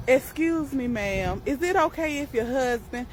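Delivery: polite request demo. Shown as a demonstration. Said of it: "the correct thing to say is".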